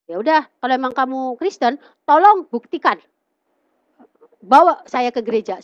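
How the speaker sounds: insist, pressing harder as it goes; firm retold challenge. Woman challenges suitor to prove his faith, firm demand.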